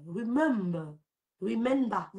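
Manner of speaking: "remember" as "ri-MEM-ber", falling at the end; corrected "remember". Shown as a demonstration. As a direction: repeat "remember" as a drawn-out model. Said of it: "on dit remember".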